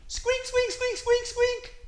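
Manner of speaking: very high, loud mouse squeaks; squeaky little mouse. Pretend. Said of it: "said the little mouse".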